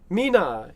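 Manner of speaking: "Mina" drawn toward mee-NAH, Spanish style; shifted accent. Shown as a demonstration. Guessing where Spanish puts the accent, "Mina" said mee-NAH. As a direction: try "Mina" with the final syllable opened out. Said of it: "where the accent would fall in Spanish".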